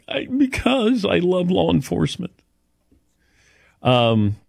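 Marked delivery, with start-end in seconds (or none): 0.1-2.3 high, hammed-up tearful confession; mock crying. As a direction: blubber it out as a joke. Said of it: "Why are you crying?".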